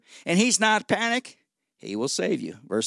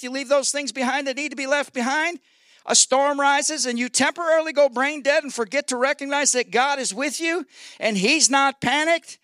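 raised, driving preacher's voice; preaching; 8 semitones higher, 4 dB louder than usual. Acted. Preacher rousing the congregation about storms, preaching. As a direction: preach it high and emphatic.

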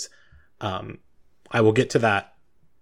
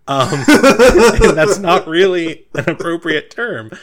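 laughing through words; 8 semitones higher, 12 dB louder, slower than usual. Real, not acted. GM laughs at own joke.

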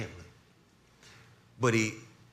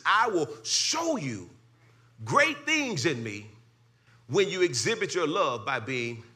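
higher, slow preached quote; preaching; 7 semitones higher, 4 dB louder than usual. Acted. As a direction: proclaim it slowly.

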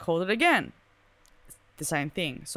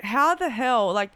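higher and louder, baffled; disbelief; 4 semitones higher, 3 dB louder than usual. Retold or imitated. She asks how her phone reached the station, loud and baffled. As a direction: throw it out in disbelief.

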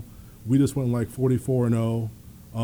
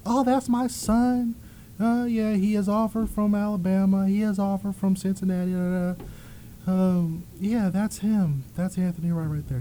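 a mother showing off her son, pitched way up; mom's proud voice; 7 semitones higher than usual. Retold or imitated. Mom brags to a stranger about her son, high and proud.

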